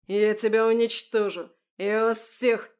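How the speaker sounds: loud furious threats; roared threats. A narrator's reading. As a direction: hurl the threat at them. Official roaring threats. (громкие яростные угрозы)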